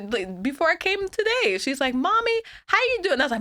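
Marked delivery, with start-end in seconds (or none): 1.9-3.2 put-on high-pitched small-child greeting; little daughter. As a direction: imitate a little girl checking on mommy. Voicing her little daughter.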